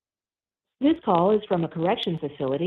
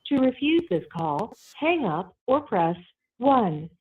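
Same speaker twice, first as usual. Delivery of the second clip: tinny prison phone line audio; payphone call. Real, not acted. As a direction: sounds like a call over a jail phone. Recorded prison phone call played.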